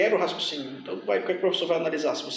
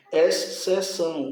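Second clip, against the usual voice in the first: slow "Exceção", drawn out at the XC; split into syllables; much slower than usual. Shown as a demonstration. Teacher showing how to separate syllables, slow divided "Exceção". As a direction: stretch "Exceção" to show where it divides. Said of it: "é assim que eu faço a separação".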